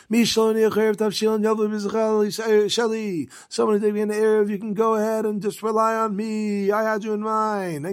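a rabbi announcing on Yom Tov, pitched high to be heard; announcing to the town. Retold or imitated.

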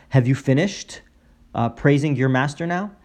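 sarcastic question, pitched a little up. Acted. Rabbi interrupting a man's prayer, sarcastic. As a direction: ask it with mock patience, mildly sarcastic. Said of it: "he definitely said this in a sarcastic way".

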